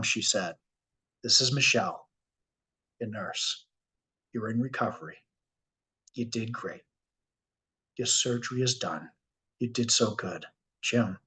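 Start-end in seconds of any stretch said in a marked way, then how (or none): 1.2-11.2 quiet reassuring nurse voice, calming a waking patient; soft gentle nurse. Retold or imitated. Nurse soothing the patient waking from surgery, softly. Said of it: "She spoke softly".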